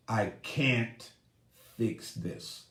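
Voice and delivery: soft, fading to a whisper; defeated mutter. Acted. Grieving husband to himself, whispered defeat. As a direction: let the words die out in defeat.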